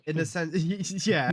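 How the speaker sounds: laughing through the words; amused chuckle while answering. Real, not acted. Laughing at own confusion.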